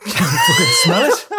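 laughing disbelief. Real, not acted. Laughing disbelief at smell joke.

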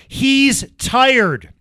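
high, loud mocking yell of Drew Lock. Host mocks Lock taunting Bosa, high loud yell. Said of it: "points and says".

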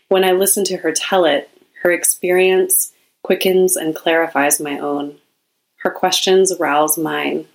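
measured, deliberate reading in short phrases; reading a quote aloud. Acted. Host reads listeners a quote about women's stories, measured reading. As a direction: read it out with care, pausing between phrases.

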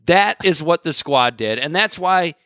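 real indignation, voice climbing high; indignant rant. Real, not acted. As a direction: drive the point home, exasperated and high-pitched. Indignant rant about the squad.

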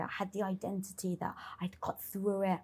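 whispered confession. Real, not acted. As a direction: drop to a breathy whisper, as if ashamed. Confessing hidden shame.

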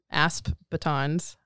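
slow, careful enunciation. Real, not acted. Co-host naming the expandable batons, carefully slowed. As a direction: say each word slowly and separately. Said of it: "I always gotta say that slowly".

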